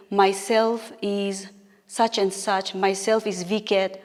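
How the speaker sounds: slow, deliberate "Myself is such and such, myself is Viket" as the error; wrong version. Shown as a demonstration. Teacher demonstrating the wrong greeting to students, slow and deliberate. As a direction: say "Myself is Viket" slowly as the common mistake. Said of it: "do not say".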